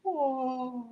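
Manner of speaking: high, long "whoa" sound effect; drawn-out whoa. Retold or imitated. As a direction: imitate ears opening wide with a gliding whoa. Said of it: "it's like they go".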